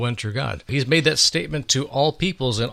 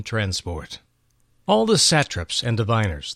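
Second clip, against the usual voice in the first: measured, unhurried storyteller reading; story narration. A narrator's reading. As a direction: draw the listener into the throne room.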